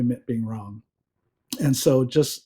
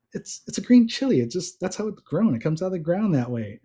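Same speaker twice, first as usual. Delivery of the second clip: higher-pitched mock-exasperated explaining; retold exasperation; 5 semitones higher than usual. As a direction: insist on the obvious, voice pitched up. Retold exasperated explaining in couple's dispute.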